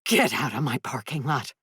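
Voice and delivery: hoarse, held-back anger. Acted. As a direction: rasp it out, hoarse. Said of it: "Voice hoarse".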